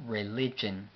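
"Religion" said the English way, ri-LI-jen; English pronunciation. Shown as a demonstration. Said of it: "aunque se pronuncia un poco diferente". ("Religion" pronunciado en inglés, ri-LI-yen)

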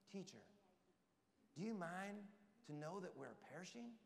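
mild, soft, mock-polite ask; timid, mock-polite request; overly polite. Shown as a demonstration. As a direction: ask sweetly as if nothing's wrong. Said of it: "I don't think they said it like this".

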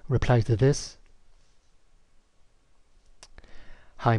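deliberate dictation, speaking the punctuation; slow dictation with punctuation. Shown as a demonstration. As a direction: dictate clearly word by word. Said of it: "I simply would say".

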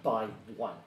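lightly voiced gloating villainess; a hint of sinister Infernal. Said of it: "She responds in Infernal".

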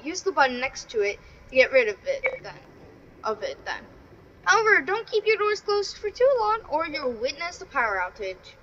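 lively read-out with lifted phrase openings; singsong tutorial read; reading instructions aloud. Real, not acted. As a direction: read the game guide out to viewers. Reads game instructions aloud.

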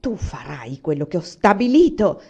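cold maternal order; peremptory. Acted. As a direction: lay down the law. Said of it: "dissi perentoria".

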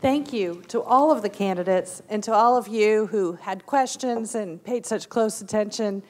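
hoarse, strained voice; losing voice. Real, not acted. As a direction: voice giving out, hoarse. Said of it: "I'm just now losing my voice".

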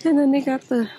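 breathless while shopping; out of breath. Real, not acted. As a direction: talk short of breath. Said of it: "I'm out of breath, y'all".

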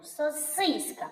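"Сосиска" stressed on the middle syllable, со-СИС-ка; correct stress on И. Shown as a demonstration. Teacher shows children the correct word, middle-stressed "соСИСка". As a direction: slowly stretch the И in the middle of "Сосиска". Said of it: "А зараз слово правильно вимовляється".

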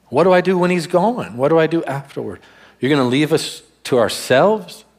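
mildly panicked, voicing a disciple's worry; anxious disciple. Disciple stressed out at Jesus leaving, anxiously questioning.

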